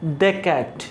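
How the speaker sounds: "दे cat" with the weak pre-consonant "the"; "दे cat", no ee sound in "दे"; "the" before consonant. Shown as a demonstration. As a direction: say "दे" with a short neutral vowel before "cat". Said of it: "उसका pronunciation होगा दे".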